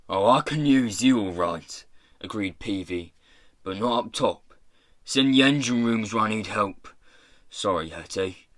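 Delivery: lightly voiced offhand pirate chief; rough pirate boss, dismissive. Pirate boss refusing a captive a top job, dismissive. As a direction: turn them down as the boss, casually.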